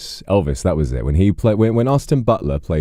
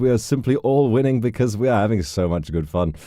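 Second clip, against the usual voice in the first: higher, stammered backpedalling disclaimer; mock disclaimer; 8 semitones higher than usual. Streamer reassuring viewers nobody loses in role-playing, mock disclaimer. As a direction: stammer into a prim caveat. Hasty disclaimer after the rally speech.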